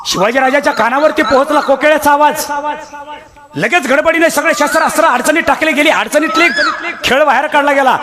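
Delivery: storytelling preacher, pitched high and carried; preaching. Acted. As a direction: drive the tale forward like a kirtan.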